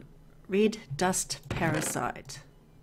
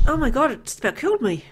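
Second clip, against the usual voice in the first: breathless relief; 6 semitones higher, 6 dB louder, faster than usual. Real, not acted. After monster attack.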